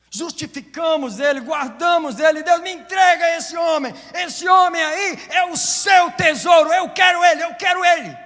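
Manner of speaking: high, loud, shouted preaching climax; fervent Pentecostal preaching; preaching at full force. Real, not acted. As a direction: build and shout it to the congregation.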